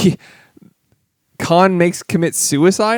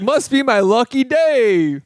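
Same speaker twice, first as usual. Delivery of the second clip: dopey voice; 6 semitones higher, slower than usual. Retold or imitated. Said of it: "When he's like".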